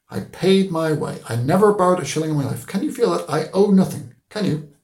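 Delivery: thump his chest with pride; proud declaration. Acted. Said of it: "he said solemnly".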